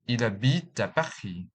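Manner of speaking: "Il habite" run together as "i-labite"; French linking. Shown as a demonstration. Teacher demonstrating French linking to learners. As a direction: glide "Il" straight into "habite". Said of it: "the following examples".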